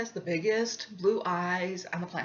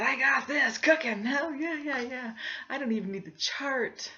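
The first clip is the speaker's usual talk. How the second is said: higher, quick burst of mock bravado; cocky confidence; 6 semitones higher, 3 dB louder than usual. Knitter telling herself she's got this, cocky. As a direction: brush it off, breezily overconfident. Retelling her overconfident thought mid-pattern.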